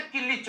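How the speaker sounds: किलिच drawn out slowly as ki-lich, with a laugh; local pronunciation. Shown as a demonstration. Explaining his town's word for a bike clutch, slow laughing किलिच. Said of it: "bike का clutch नहीं होता".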